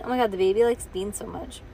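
ordinary delivery, nothing marked

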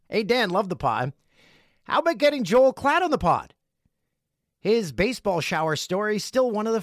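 loud eager high pitch; excited. Acted. Enthusiastic reading of fan letter.

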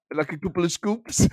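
lightly put-on German pundit; comic impression; Didi Hamann. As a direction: quote the pundit in a German accent. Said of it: "That's a really good Didi Hamann".

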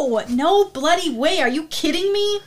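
loud, high outraged denial; indignant denial. Acted. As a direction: fling the accusation back, loud and incredulous. Suspect indignantly denies accusation.

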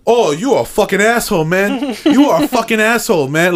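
high-pitched mock outrage; retold indignant rant. Shopper cursing at the man who took the register, mock-indignant. Retelling an angry shopper's insults.

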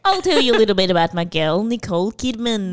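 lightly put-on Australian accent; attempted Australian accent. Host introducing Nicole Kidman, attempted Australian accent. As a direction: try a rough Australian accent. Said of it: "I can't do an Australian accent".

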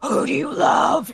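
intercom voice. Acted. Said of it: "over the intercom is gonna be like".

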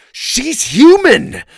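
loud, high, drawn-out shout; slow, soaring outcry; crying out. A narrator's reading. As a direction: cry it out as a desperate revelation. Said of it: "Oliver cried".

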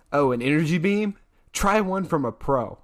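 lightly voiced cocky hero line; quoting a cocky superhero line, lightly acted; quoting Cyclops.

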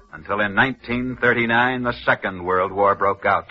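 put-on old-radio storyteller building suspense; dramatic narration. Narrator tells listeners the escape story, dramatic radio narration. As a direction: tell the legend with rising tension.

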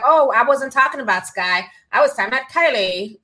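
airy Valley Girl imitation. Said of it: "I got them Valley Girl voices".

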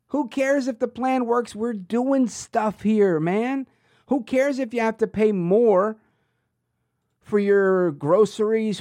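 sarcastic who-cares. Retold or imitated. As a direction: play the officials brushing off complaints. Sarcastically voices the politicians' indifference.

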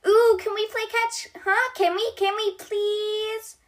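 high, pleading dinosaur voice, slowing on please; begging Bronte. A narrator's reading. Bronte begging Stuffy to play catch. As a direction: plead like an eager kid for a game. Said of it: "begs Bronte".

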